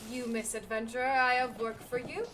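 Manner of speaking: a lightly voiced stern master handing out work; lightly imperious quest giver. Voices quest-giving master NPC.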